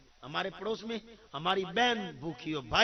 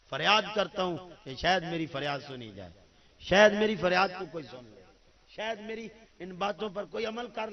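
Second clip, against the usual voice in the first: pleading cry; 2 semitones higher, 6 dB louder than usual. Real, not acted. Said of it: "فریاد ہے میری".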